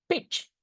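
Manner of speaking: beach with a short i, like the bad word; short-vowel mistake. Shown as a demonstration. Teacher warning students about the rude-sounding beach. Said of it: "like the bad word".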